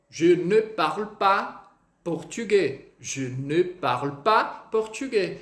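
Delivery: slow "Je ne parle pas portugais" with rounded e; teacher modelling a full sentence; careful French sentence. Shown as a demonstration. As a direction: say it slowly, lips rounded. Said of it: "essas coisinhas fazem muita diferença".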